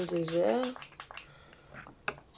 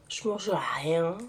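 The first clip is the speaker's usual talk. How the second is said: exasperated; 4 dB louder, much slower than usual. Real, not acted. Venting frustration about weight.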